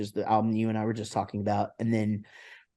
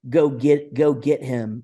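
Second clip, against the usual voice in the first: Texas twang; 2 semitones higher, 4 dB louder, slower than usual. Shown as a demonstration. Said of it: "I'll say".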